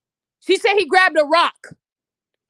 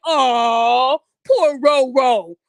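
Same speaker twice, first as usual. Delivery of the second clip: mock pity; 5 semitones lower than usual. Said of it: "you guys are gonna say".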